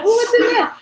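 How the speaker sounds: high, loud curious "ooh"; mock-intrigued outburst; curious reaction. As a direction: retell it with exaggerated, high-pitched curiosity. Acting out own curious reaction.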